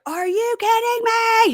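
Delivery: high, slow, mock-outraged husband; mock angry disbelief. Husband hearing wife is in jail, slow outraged disbelief. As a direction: stretch it out in disbelief. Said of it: "He's so mad".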